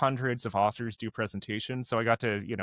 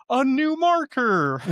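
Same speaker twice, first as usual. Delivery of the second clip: put-on kids' voice; 13 semitones higher, 6 dB louder, slower than usual. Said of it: "And they're like".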